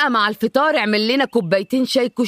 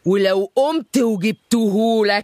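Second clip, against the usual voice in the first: sing-song threat; 3 semitones lower, slower than usual. Acted.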